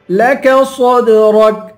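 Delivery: لك صدرك chanted slowly with a bounced د; full heavy ص and echoing د in صدرك; qalqalah on dal. Shown as a demonstration. Teacher showing qalqalah, صدرك with د bounced. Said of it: "دال پہ قلقلہ کریں گے".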